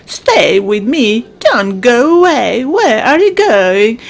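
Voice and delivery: mildly lovelorn begging; pleading suitor. Acted. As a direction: coax her to stay. Wooing a fleeing female pigeon.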